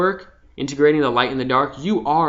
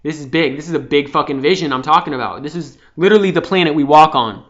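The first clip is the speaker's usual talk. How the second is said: louder, rising overwhelmed voice; 2 semitones higher, 6 dB louder than usual. Retold or imitated. Overwhelmed by a huge vision, mildly panicked loud voice. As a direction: let the size of it hit you, half acted. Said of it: "overwhelmment hits you".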